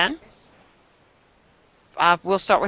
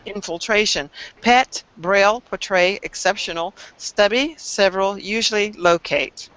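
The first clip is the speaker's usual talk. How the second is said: over enunciating. Shown as a demonstration. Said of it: "I'm going to read them as quickly as I can, and I'm going to enunciate each one".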